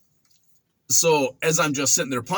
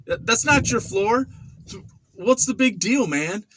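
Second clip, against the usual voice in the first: cocky mock defiance, pitched up; smart ass retort; 5 semitones higher, slower than usual. Young inmate mouthing off to the mopper, cocky. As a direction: sneer it like a young punk. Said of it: "And I'm like".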